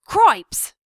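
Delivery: loud, high yelp of alarm; shocked exclamation. A narrator's reading. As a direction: blurt it out in shock. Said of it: "said Furlow".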